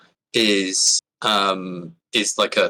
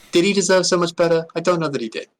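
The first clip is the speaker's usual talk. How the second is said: mock doubt; 10 semitones higher, 3 dB louder than usual. Real, not acted. Questions his own claim.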